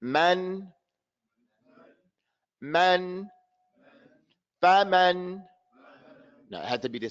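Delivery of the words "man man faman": "Man", "Faman" held evenly with open vowels; open model reading. Shown as a demonstration. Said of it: "you have to open up your mouth".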